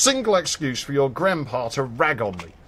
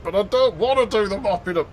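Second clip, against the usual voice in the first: put-on whiny kid; 6 semitones higher than usual. Kid voiced in retold story.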